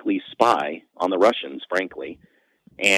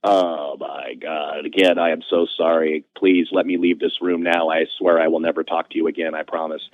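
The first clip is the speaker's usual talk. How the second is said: mortified apology; 4 semitones lower than usual. Retold or imitated. Apologizing to Jenny in the copier room, mortified. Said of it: "And I was like".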